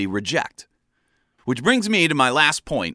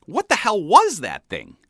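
fuming; 6 semitones higher than usual. Retold or imitated. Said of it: "I fumed".

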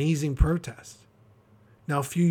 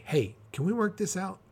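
humble request; 6 semitones higher than usual. Retold or imitated. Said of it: "humbly going behind the scenes saying".

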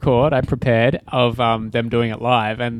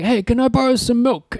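put-on Jewish accent; 11 semitones higher than usual. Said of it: "quite a Jewish voice".

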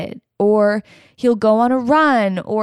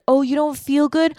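mock compassion; 6 semitones higher than usual. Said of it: "compassionate and empathetic".

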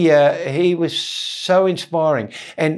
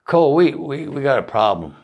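Southern bandsman. Retold or imitated. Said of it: "half of them were from a singer's old band".

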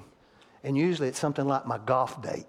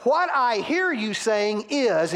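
high, very slow and drawn out; a slow, careful teaching example; slow emphatic demo; 7 semitones higher, 4 dB louder, much slower than usual. Shown as a demonstration. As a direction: spell out each word of the phrase like a model sentence. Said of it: "So we ask this question".

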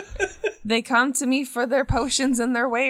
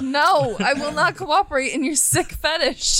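laughing; 3 semitones higher than usual. Acted. Mock refusal while laughing.

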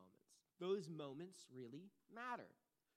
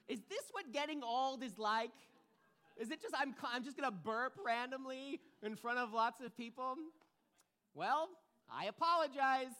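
embarrassed laughing; 6 semitones higher, 8 dB louder than usual. Real, not acted. Embarrassed after burping.

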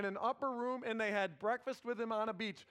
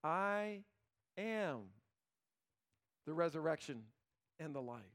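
slow solemn declaration; 4 semitones lower than usual. Acted. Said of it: "he said to her".

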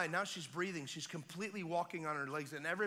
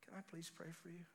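calm Neo; 13 dB quieter, faster than usual. Retold or imitated. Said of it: "I just looked at him like Neo".

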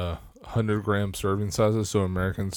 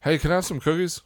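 put-on higher, pleading child asking for cookies; 8 semitones higher than usual. A kid asking dad for cookies, higher and pleading. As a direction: play the hopeful kid. Acting kid and parent dialogue.

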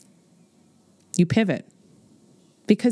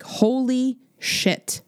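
mock panic; 6 semitones higher, much slower than usual. Panicked quote of business worry.

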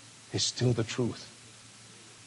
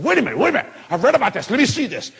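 high, loud, excited protest; retold hollering; 6 semitones higher, 4 dB louder, much faster than usual. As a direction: re-enact an urgent holler to hold everything. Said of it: "I start screaming and hollering".

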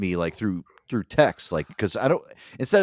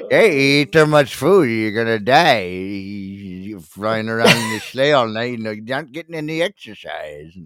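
lightly hammed-up scolding doctor impression; Doctor Now. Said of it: "my Doctor Now making an appearance".

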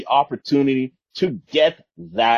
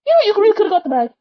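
high, fast, squeaky complaint; mock exasperation; 4 dB louder, faster than usual. Real, not acted.

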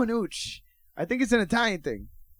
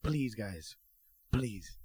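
pleading parents; 9 semitones lower, 12 dB quieter, much slower than usual. Retold or imitated. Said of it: "our parents were like".

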